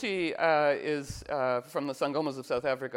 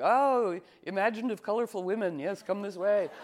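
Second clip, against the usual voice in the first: put-on old guard greeting; 6 semitones higher, 4 dB louder than usual.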